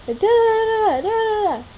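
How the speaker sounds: high, loud nonsense syllables aping a bickering partner; a playful parody of nagging noise; mock squabbling gibberish. Mocking their squabbles with gibberish.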